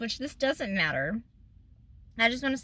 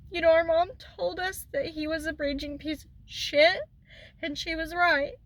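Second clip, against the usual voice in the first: higher, strained voice on the edge of tears; fighting not to cry as she speaks; holding back tears; 5 semitones higher than usual. Real, not acted. Talking about her late mother, near tears. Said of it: "I'm trying not to cry".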